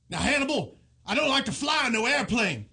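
lightly put-on character voice; getting into character. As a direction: test a starter phrase to find the character. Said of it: "I think I'm in character".

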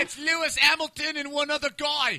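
high-pitched English racing fan; hammed-up British race commentary; mock British accent. Co-host parodying F one viewing, mock British voice.

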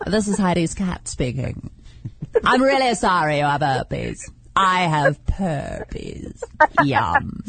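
slow, drawn-out snooty cat; little cat voice. Pretend. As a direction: talk like a bored house cat. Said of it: "do a little cat voice for me".

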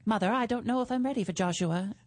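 lightly voiced radio-serial daughter; a hint of melodrama; old-time radio drama. Shown as a demonstration. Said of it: "we talk like this".

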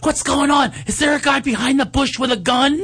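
high, whiny mock voice of a confused viewer; imitating a moviegoer who talks through the film; mocking clueless moviegoer. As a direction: ham up a dumb question. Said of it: "People are like".

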